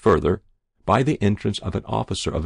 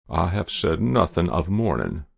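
cold; 3 semitones lower than usual. Acted. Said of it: "replied the General coldly".

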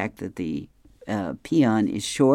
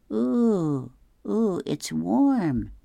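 squealing Barry; 9 semitones higher, much slower than usual. Acted. Barry voiced in comic.

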